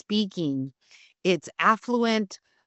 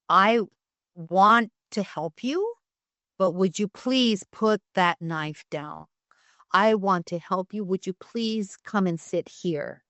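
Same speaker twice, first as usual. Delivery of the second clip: slow, gentle de-escalating plea; calm reassurance. Shown as a demonstration. Officer talking down a person with a knife, slow and gentle. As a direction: soothe someone holding a knife. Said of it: "So you can say".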